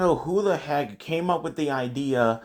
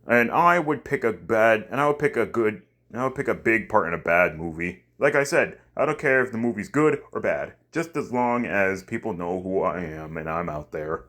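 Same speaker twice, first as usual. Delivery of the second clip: put-on African American accent; 2 semitones lower than usual. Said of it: "from my normal voice to my black voice".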